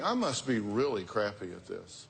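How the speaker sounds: mean it this time, no joke; earnest insistence; serious. Shown as a demonstration. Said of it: "I'm not kidding".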